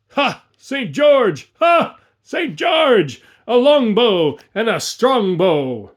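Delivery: very high, loud whoops; battle shout. A narrator's reading. Bowmen roaring their war cry, battle shout. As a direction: yell it as the arrows fly. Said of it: "thousands shouting".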